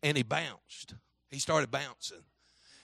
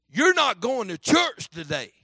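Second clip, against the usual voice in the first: higher, louder, slow mimicked order; commanding devil; 6 semitones higher, 7 dB louder than usual. The speaker quotes the devil forbidding church, slow and commanding. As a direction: lay down the law, drawn out.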